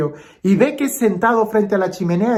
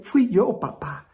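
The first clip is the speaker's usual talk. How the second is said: put-on tearful child confessing; 3 semitones higher than usual. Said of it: "la niña entre lágrimas le dice".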